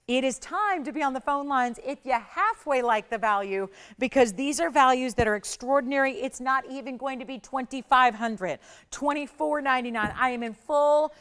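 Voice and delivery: sales pitch hype. Real, not acted. Host urging viewers onto the phone lines, hyped pitch. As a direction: push the deal hard and loud.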